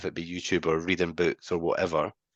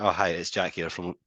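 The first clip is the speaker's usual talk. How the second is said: level, easy phone hello; calm low-key greeting. Shown as a demonstration. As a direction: keep it calm to match them. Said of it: "go in at their level".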